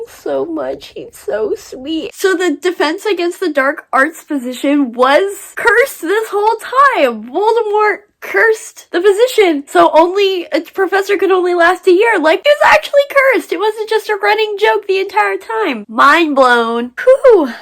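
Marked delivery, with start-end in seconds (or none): 2.1-15.8 rising, louder, faster as the realisation lands; building to a high, breathless mind-blown rush; geeking out over a plot twist, climbing higher and louder; excited disbelief. Real, not acted. 15.9-17.5 mind blown. Real, not acted. Reacting to a plot twist.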